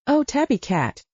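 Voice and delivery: through a yawn; lazy yawned words. A narrator's reading. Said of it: "Sybil yawned".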